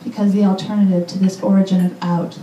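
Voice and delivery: measured poem recital with deliberate pauses; poetry reading. Acted. Poet reading a poem for Hayley to an audience, measured recital. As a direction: read it out phrase by phrase, letting lines land.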